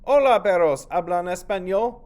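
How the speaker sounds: put-on high, loud child voice calling out; Nieto's eager greeting. Child Nieto greeting the donkey, loud and high. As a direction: call out brightly to the donkey.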